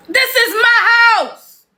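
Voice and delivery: mock indignant homeowner. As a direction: play the offended man of the house. Acted quarrel as homeowner.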